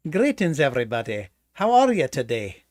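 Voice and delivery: playful put-on Scottish accent. Co-host bringing back accents for the listeners, mock Scottish accent. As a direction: greet them in a mock Scottish lilt. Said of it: "that was a Scottish accent".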